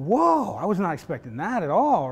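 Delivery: a retold jolt of surprise; startled whoa. Husband caught off guard by wife's remark, mock startled. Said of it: "I went".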